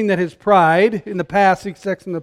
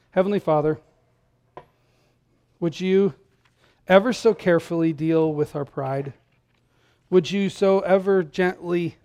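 closing prayer; 2 semitones lower than usual. Real, not acted. Pastor closes in prayer.

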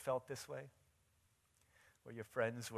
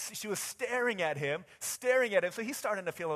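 raised-voice sermon storytelling; forceful preaching; 10 semitones higher, 10 dB louder than usual. Real, not acted. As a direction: tell it from the pulpit, pitched up and emphatic.

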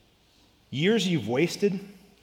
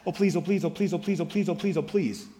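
lightly voiced little boy begging, a bit higher; mock a child's sing-song pleading; Caleb's whiny begging; 3 semitones higher than usual. Pastor imitating his little son's begging, lightly whiny. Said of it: "what my youngest son Caleb says".

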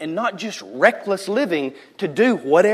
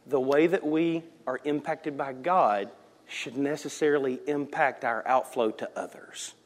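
ordinary delivery

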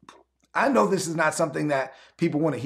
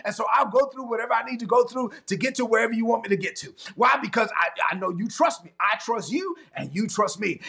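fired-up preaching; 3 semitones higher than usual. Acted. Pastor preaching to his online congregation, fired-up preaching. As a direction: preach it hard to the church.

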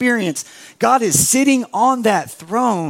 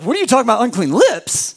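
our own disbelief; faster than usual. Retold or imitated. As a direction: throw the words back at God. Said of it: "And we're like".

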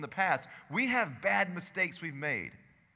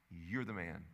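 hushed repeat; 9 semitones lower, 7 dB quieter than usual. Acted. Repeated softly after David broke.

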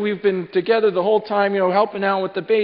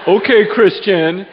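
wry laugh; 4 dB louder, slower than usual. Real, not acted. Wife suggests apologizing to neighbor.

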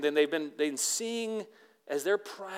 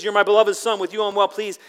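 louder and higher, ringing out; joyful proclamation; 7 semitones higher, 12 dB louder than usual. Acted. Pastor exclaiming God's words to the congregation, loud and joyful. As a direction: proclaim it with delight.

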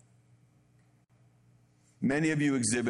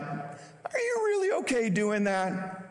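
high, slow, disbelieving question; incredulous; 10 semitones higher, slower than usual. Retold or imitated. Pastor reacting to bold scripture writers, high incredulous question. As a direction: ask it as if scandalised by the psalmist. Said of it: "in a way that I'm like".

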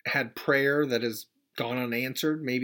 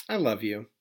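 calm love; 3 semitones lower than usual. Retold or imitated. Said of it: "opened my arms and said".

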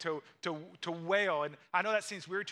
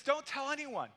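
urgent hush; 7 semitones higher than usual. Retold or imitated. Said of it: "And so Jesus says".

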